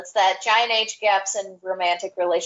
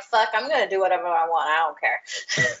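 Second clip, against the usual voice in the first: careless non-French; 3 semitones lower than usual. Retold or imitated. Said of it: "everybody else is like".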